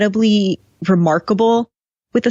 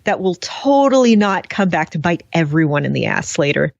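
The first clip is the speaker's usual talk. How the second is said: sarcastic. Real, not acted. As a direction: lay on light, knowing sarcasm. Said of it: "We are being very sarcastic".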